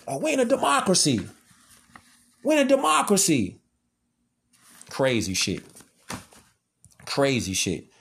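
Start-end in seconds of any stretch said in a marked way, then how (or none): 0.1-3.6 higher mocking singsong; mocking naive belief. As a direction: parrot their naive line in mockery, pitched up. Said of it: "they stuck on thinking we in a democracy".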